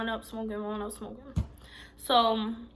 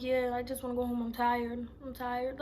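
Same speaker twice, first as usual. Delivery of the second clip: quiet, unbothered brush-off; low-key attitude; 4 dB quieter than usual. Retold or imitated. Woman telling her date she wants home, low-key attitude. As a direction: say it low and weary, giving little away. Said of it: "I was saying it just like that".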